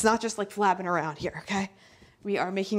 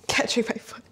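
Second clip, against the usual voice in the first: strained whisper; 2 semitones higher than usual. Real, not acted. Struggling, foot caught.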